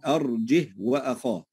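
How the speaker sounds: أرجه closed on a plain 'h', no added vowel; silent-vowel ha. Shown as a demonstration. Teacher repeats the example, أرجه with unlengthened h. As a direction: pronounce only the h of أرجه, then وأخاه directly. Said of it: "ننطق الهاء فقط دون أن نصلها".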